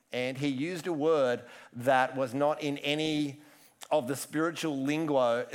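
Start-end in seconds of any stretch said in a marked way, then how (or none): 4.8-5.4 "lingo" mispronounced as "ling-gwo"; slip of the tongue. Real, not acted. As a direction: say "lingo" with a stray w before the o.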